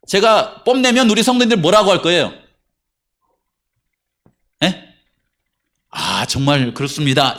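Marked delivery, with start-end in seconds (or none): 5.9-7.4 low, slow, drawn-out agreement; imitating an approving church member; imagined agreeing congregant. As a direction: agree slowly, in a lower voice. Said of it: "이렇게 할 거예요?".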